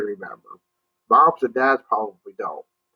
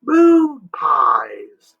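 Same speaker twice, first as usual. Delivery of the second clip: loud, higher shout; 5 semitones higher, 5 dB louder than usual. Acted. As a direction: shout it so the deaf moon hears. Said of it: "shouted Jimmy".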